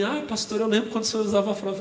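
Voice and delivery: put-on old church sister. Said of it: "ela fala pra mim".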